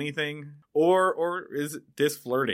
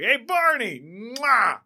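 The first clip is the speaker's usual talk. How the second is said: mock flirty kiss call; 10 semitones higher, 6 dB louder, slower than usual. Joe blowing a kiss.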